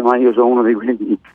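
hoarse, worn-out voice; hoarse from shouting at the stadium; voice giving out. Real, not acted. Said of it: "scusate la voce".

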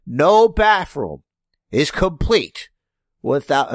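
slow, grand showman pitch; hammed-up rich villain promo; rich heel voice. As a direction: sell it like a smug rich heel. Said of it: "notice I'm not doing a racist accent".

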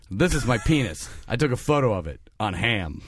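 low, deadpan pitchman voice; John Hamm. Acted. John Hamm demonstrating a camera, deadpan and low. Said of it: "That's my John Hamm impression".

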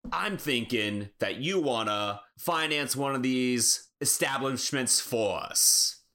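slow, measured gangster pitch; slow mob envoy voice. Acted. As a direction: lay out the deal slowly like a mobster.

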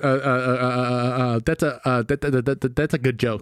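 stuttering malfunctioning robot voice; glitching robot. Pretend. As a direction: stall like a broken machine. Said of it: "Let me reprogram you".

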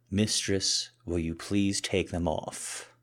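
dutiful, reluctant plea; grudging request. Acted. Kneeling man asks Mistress to uncuff him, grudging. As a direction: say it because you have to. First forced attempt at begging.

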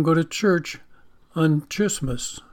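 "Christmas" as "Chrismas", with the CH of "church"; soft CH in Christmas. Shown as a demonstration. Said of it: "C H, you know, that can go whatever way".

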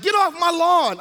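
a hint of a cranky old man; grumpy old guy. Pastor mimicking a grumpy old man in the car. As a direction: grumble it like a lawn-proud old man. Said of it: "I'm like the old guy in the car".

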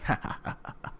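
quiet, voiceless chuckle to himself; sly mock laugh. Imitating old wrestler laughing it off in his mind, sly chuckle. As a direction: imitate someone secretly laughing it off. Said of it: "Like, laughing it off".

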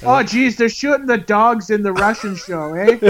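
put-on Canadian accent. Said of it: "slip into your Canadian accents".

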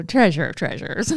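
dry, snarky mother's endearment; mildly mocking sweet-talk. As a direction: say it with a sarcastic edge. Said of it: "snarky the way".

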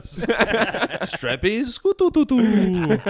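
very slow, high, laughing; giggling out an engine sound. Real, not acted.

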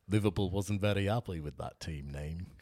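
put-on a light Liverpool accent in passing; a quick, lightly voiced Liverpool accent; a hint of a Liverpool accent, barely off the speaker's own; impression of a famous drummer. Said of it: "a famous drummer one".

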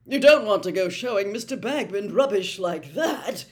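loud, tense hissing scolding; sharp hissed telling-off; hissed reproach. A narrator's reading. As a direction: hiss it, scandalised. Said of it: "Percy hissed".

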